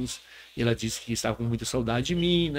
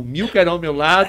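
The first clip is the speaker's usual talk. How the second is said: loud, fervent psalm proclamation; proclaiming psalm; 3 semitones higher, 7 dB louder than usual. Retold or imitated. Pastor proclaiming Psalm 91 to the missionaries, loud and fervent. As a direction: belt it out like preaching from the pulpit.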